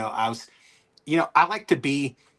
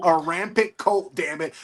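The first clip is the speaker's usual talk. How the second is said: slow mock repeat; 2 semitones higher than usual. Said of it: "Some guy got so mad".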